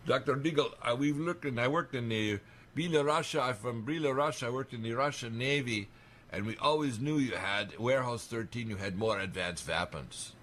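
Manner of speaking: a hint of a Russian accent, retelling a navy man's words; light Russian accent. Retelling what a Belarusian ex-navy colleague told him, in a mild Russian accent. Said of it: "and with a little accent".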